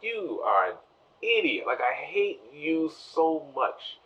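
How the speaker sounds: high-pitched, drawn-out exasperation; mock exasperation. Viewer scolding the tricked character, mock exasperation. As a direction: stretch it out high in comic disbelief. His exasperated reaction to Hector.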